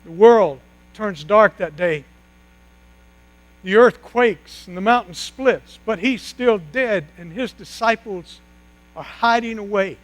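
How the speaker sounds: ordinary delivery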